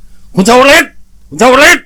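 high, far-carrying shout, drawn out at the end; acted searching holler; hollering a name. A narrator's reading. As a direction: call out to someone lost in the woods. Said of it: "เขาก็กู่ตะโกนเรียกชาวลิต".

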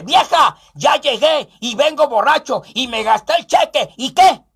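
defiant tipsy husband calling to his wife; mock drunk bravado; drunk husband bluster. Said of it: "le dije".

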